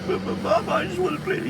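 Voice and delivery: put-on very high, thin kid voice; imitated little brother's high-pitched plea; pleading little boy. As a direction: stammer a small child's protest.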